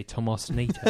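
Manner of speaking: lightly put-on British accent. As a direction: say it like the Brits do. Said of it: "in a British accent".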